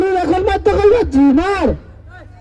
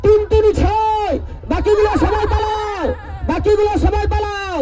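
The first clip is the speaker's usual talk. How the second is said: frantic retreat order. Real, not acted. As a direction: order everyone back, urgently. Announcer ordering crowd to clear.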